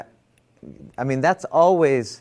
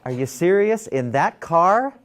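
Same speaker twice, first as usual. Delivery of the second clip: mock outrage; 7 semitones higher than usual. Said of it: "My conditioned thinking was".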